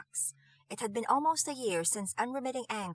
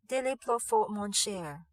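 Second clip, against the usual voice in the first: cooing. Acted. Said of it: "Hortense cooed".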